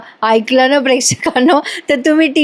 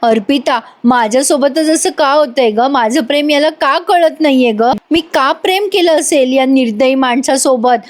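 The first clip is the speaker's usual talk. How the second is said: mock tearful drama; 3 semitones higher than usual. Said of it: "एवढा drama रंगवते".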